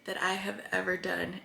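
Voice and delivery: quietly moved, holding back tears; getting emotional. Real, not acted. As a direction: let the feeling catch in your throat. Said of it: "why am I getting emotional?".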